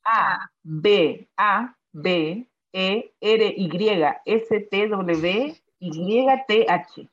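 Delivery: letters said one by one, A, B, A, B, E, R, Y, S, T, W, Y, T, H; spelling it out. Shown as a demonstration. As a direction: spell each letter apart, A, B, A, B, E, R, Y, S, T, W, Y, T, H. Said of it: "Voy a deletrear la palabra".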